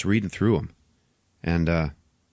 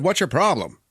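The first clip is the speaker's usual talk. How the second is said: higher, more forceful retold demand; insistent challenge; 7 semitones higher, 3 dB louder than usual. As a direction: repeat it like you were ignored. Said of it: "I said".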